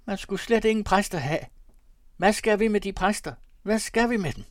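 high, loud falsetto grumbling. A narrator's reading. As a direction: protest in a piping merchant's voice. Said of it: "med sin fistelstemme".

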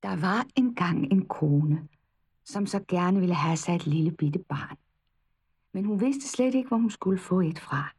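gentle, hushed fairy-tale reading. A narrator's reading. Reads a fairy tale aloud. (blød, hyggelig eventyrfortælling)

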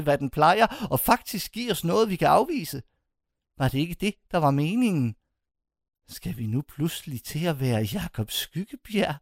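a lightly voiced old man protesting; the old mentor pleading against smiling; agitated old man. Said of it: "siger han".

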